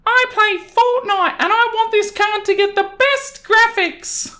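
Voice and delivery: put-on very high, whiny child voice; a bored little boy pestering his mother; bratty kid. Entitled kid whining to his mum to go home, very high.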